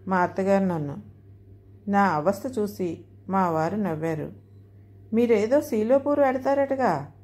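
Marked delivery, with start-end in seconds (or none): 5.1-7.1 slow, cheeky tease; mischievous teasing. Acted. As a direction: needle him playfully, drawn out. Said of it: "కోతిలాగా ఊరుకోకుండా". (అల్లరిగా ఆటపట్టిస్తూ, నెమ్మదిగా)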